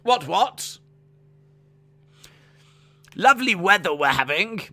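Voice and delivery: put-on high, loud caricature British accent; stereotypical British. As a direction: ham up a stereotypical British greeting. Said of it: "You've got standard British accent".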